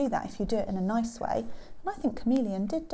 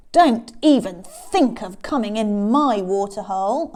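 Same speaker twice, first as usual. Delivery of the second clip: loud warning, pitch kept near usual; menacing crocodile; 7 dB louder than usual. Acted. Crocodile to Elephant at the water hole, menacing. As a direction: warn them off forcefully.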